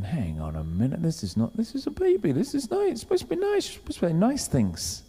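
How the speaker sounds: high, soft, pleading protest; mock protest. Parents told their baby will divide people, high mock dismay.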